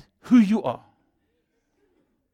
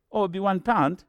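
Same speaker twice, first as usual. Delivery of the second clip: put-on British accent for a parking attendant; attempted British accent. Ticket man asking drivers for one pound, attempted British accent. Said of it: "That's the best I can do, British accent".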